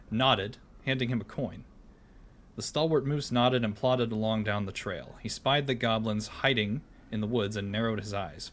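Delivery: storybook reading voice; story narration. Acted. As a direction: read it like a bedtime tale.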